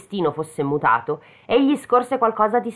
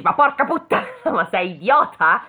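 a hammed-up cry of frustration; exasperated outburst; 3 semitones higher, 4 dB louder than usual. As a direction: blow up at him in mock disbelief. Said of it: "E qua tu dici".

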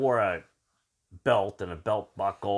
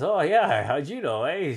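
retold high, loud friendly reply; upbeat reply; 7 semitones higher, 5 dB louder than usual. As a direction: play back a pleasantly surprised comeback, pitched up. Replies to being recognized as Canadian.

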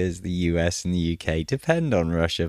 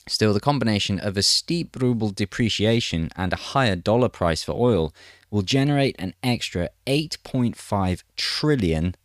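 measured news-reading delivery; article read aloud. Acted.

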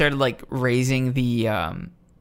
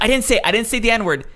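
mock Karen denial; 8 semitones higher, 3 dB louder than usual. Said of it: "She's like".

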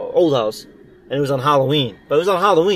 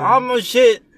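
higher, louder mock cop; mock high squeal; 10 semitones higher, 4 dB louder, much slower than usual. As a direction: squeak it out in a hammed-up voice. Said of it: "He's like".

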